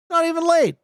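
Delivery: high, loud mock outrage; surprised. Real, not acted. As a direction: squeak it out in disbelief.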